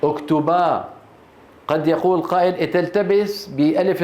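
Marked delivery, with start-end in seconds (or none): 0.0-0.9 اكتبا said with a long final alif at the pause; ending in alif. Shown as a demonstration. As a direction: stop on اكتبا with a clear final a. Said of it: "شو بيقول؟". (الوقف على اكتبا بالألف)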